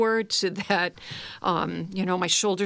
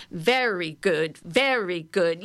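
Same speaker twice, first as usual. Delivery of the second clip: slow praise; slower than usual. Shown as a demonstration. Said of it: "do it with me".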